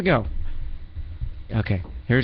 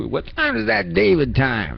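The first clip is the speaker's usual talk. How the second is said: imitating David; 4 semitones higher, slower than usual. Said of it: "That's what he'd say".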